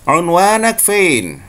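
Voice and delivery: slow Egyptian "unwanak fein"; Egyptian Arabic. Shown as a demonstration. Teacher showing students the Egyptian version. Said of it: "orang Mesir akan mengatakan".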